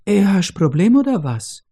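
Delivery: a sassy woman squaring up; cheeky retort. Acted. Veiled woman retorts in broken German.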